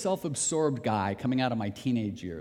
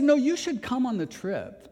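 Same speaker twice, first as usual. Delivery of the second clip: higher, louder insistent pastor; pastor insisting; 10 semitones higher, 3 dB louder than usual. Retold or imitated. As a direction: press him to come along. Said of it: "And he said".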